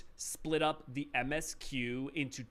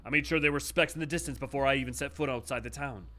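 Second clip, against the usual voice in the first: louder, earnest protesting voice; pleading underling; 5 dB louder than usual. Acted. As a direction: insist desperately it's true. Voicing a nervous underling.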